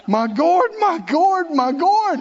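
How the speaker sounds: hammed-up Jonah moaning for his gourd; mock wailing Jonah.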